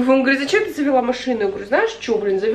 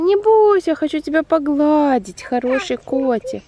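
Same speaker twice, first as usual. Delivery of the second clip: coaxing a pet; 3 semitones higher than usual. Real, not acted. Reassuring a scared cat.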